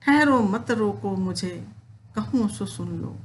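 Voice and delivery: Kaikeyi halting the assembly, recited; poem recitation. Acted. Teacher reciting Kaikeyi stopping everyone, declaimed verse.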